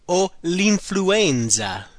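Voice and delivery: very slow, careful model phrase. Shown as a demonstration. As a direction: spell it out by sound. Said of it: "The next one is".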